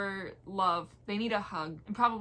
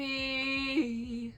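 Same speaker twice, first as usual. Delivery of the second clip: dramatic call; 6 semitones higher, much slower than usual. Pretend. Calling a character's name.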